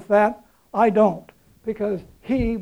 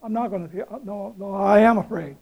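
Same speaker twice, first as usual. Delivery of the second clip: wavering mock doubt. Shown as a demonstration. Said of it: "He didn't just think it".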